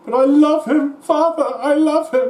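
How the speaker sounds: high, pleading mock-whine; pleading son. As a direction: beg your father in a hammed-up high voice. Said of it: "Great big tracts of land".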